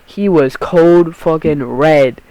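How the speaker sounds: usual speaking voice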